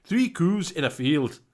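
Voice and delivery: slow, lightly Scottish reading; Scottish accent. Pretend. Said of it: "Say in a Scottish accent".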